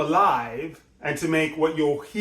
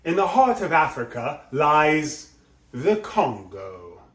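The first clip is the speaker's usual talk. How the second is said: slower, stressing heart then settling on Congo; vivid emphasis. Shown as a demonstration. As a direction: clear varied emphasis through the line. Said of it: "He's doing really clear, vivid emphasis".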